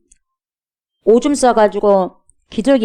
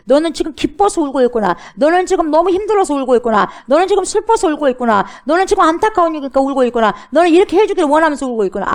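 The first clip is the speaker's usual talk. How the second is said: raised, rolling voice of an understanding God; higher pitch, each line chanted in the same arc; 헤아려 주시는 하나님; 7 semitones higher than usual. Acted. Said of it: "하나님도 마찬가지요". (높은 어조로 헤아려 주듯)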